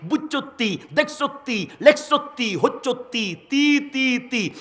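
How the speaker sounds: rhythmic Comilla dialect. Shown as a demonstration. Preacher showing the crowd the Comilla rhythm, high and chanted. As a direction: sing out the Comilla "-tti" endings in a beat. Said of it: "কুমিল্লার ভাষার একটা তাল আছে".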